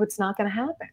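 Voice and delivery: calm, softly spoken refusal; retold calm, hushed firmness; really calm. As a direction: refuse quietly, without any heat. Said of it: "I stayed really calm like this".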